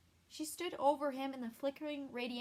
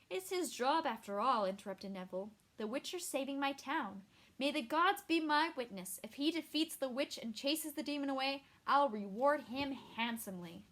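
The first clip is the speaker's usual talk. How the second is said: pompous mayor; 3 semitones higher, 4 dB louder than usual. Acted.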